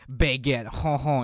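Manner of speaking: hammed-up cartoon French; French accent. Shown as a demonstration. Podcaster pitching the French dub, mock French accent. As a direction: show off a silly French accent. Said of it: "with a French accent in English".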